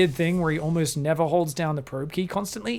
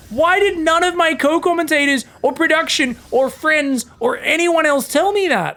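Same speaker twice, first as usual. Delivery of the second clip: exasperated outburst; 10 semitones higher, 7 dB louder than usual. Retold or imitated. Recalls being corrected on Twitter.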